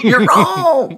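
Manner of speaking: high laughing repeat; laughing echo. Real, not acted. Laughing back at the co-host, high and giggly.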